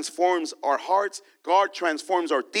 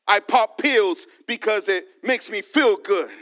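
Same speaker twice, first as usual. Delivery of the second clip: mock sinner excuses; 2 semitones lower than usual. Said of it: "self-good".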